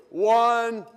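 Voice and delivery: shouted count for the crowd; loud count-in. Real, not acted. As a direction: bark the count loudly.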